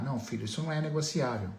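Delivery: quick, calm fatherly refusal; pai firme. Acted. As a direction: turn the child down quickly, without raising the voice. Pai responde com calma firme. (pai negando com calma, fala rápida)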